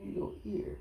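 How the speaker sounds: high, soft whisper to a pet; hushed pet talk. Real, not acted. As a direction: whisper fondly over the little ear.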